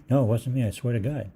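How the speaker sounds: denying mother. Retold or imitated.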